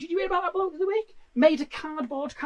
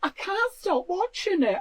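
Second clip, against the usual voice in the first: slow, mock-tearful gush; mock transfixed fan; 4 semitones higher, 3 dB quieter than usual. Viewer hooked on the pasty stream, mock tearful. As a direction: swoon over the stream. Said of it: "they were going".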